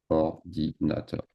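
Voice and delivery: "ordinateur" said slowly and clearly; slow model word. Shown as a demonstration. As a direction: spell out "ordinateur" syllable by syllable for learners.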